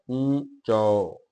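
ਊਚੋ drawn out, nasal first vowel; nasalised long vowel. Shown as a demonstration. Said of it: "ਊੜੇ ਦੁਲੰਕੜ ਉੱਤੇ ਬਿੰਦੀ ਹੈ".

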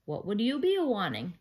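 a hint of lilting leprechaun; leprechaun teacher. A narrator's reading. Storybook leprechaun's Irish-phrased lines.

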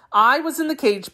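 "I was in the cage" pitched high and musing; muddled jackal. Acted. Jackal repeating the tiger's words wrongly, muddled and high.

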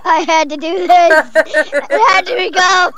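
helium-high voice changer. Real, not acted. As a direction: talk through a helium voice filter. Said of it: "sounds like you're so high on helium".

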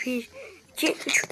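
hushed counting; whispered two, three. Real, not acted. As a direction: count under your breath. Counting under his breath.

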